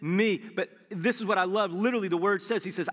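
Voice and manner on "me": slow invitation. Retold or imitated. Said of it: "he's saying".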